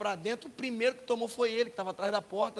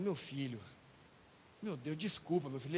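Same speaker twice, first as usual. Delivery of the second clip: remorseful apology; 5 semitones lower, 5 dB quieter than usual. Acted. Remorseful father holds hurt son.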